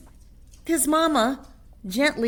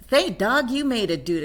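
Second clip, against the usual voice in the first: higher, louder relieved cry; exclaiming; 5 semitones higher, 6 dB louder than usual. Acted. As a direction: cheer a friend's arrival. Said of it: "exclaimed Don Diego".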